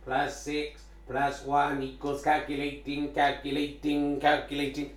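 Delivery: robot voice. Pretend. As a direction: speak like a calculating machine. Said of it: "Robot Voice".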